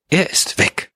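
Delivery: acted catch in the throat; thick-voiced murmur. A narrator's reading. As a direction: murmur it with a clogged voice. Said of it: "murmelte sie mit belegter Stimme".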